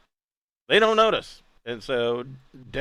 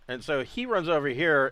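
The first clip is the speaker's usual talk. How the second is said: ordinary talk, nothing marked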